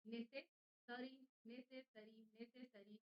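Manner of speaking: नेसेसरी drawn out slowly, syllable by syllable; a teacher slowly spelling out नेसेसरी aloud; slow drill. Shown as a demonstration. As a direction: stretch नेसेसरी out slowly so students catch every sound. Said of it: "इन दोनों का pair याद रखना".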